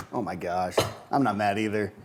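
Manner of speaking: low and soft, mock unbothered; matching their calm. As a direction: drop it down easy like nothing's wrong. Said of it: "so you just match their emotion".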